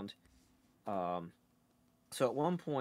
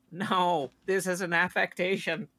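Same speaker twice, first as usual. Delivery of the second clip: raised, louder put-on Boston accent; 5 semitones higher, 4 dB louder than usual. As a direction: stay in the hammed-up Boston voice. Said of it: "recognizable by my Boston accent".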